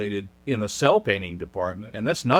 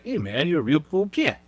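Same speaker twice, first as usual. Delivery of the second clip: cool beatnik; 4 semitones higher than usual. Retold or imitated. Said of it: "talking like a beatnik".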